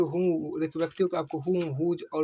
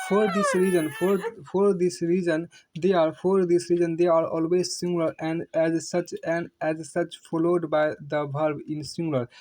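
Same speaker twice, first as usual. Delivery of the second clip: loud slow dictation; 4 dB louder, much slower than usual. Shown as a demonstration.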